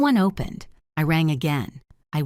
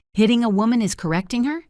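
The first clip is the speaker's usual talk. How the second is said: rising, louder indignation; indignant; 5 semitones higher, 4 dB louder, faster than usual. Acted. Mother outraged at the father-in-law over the hit. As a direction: throw it back at him, outraged.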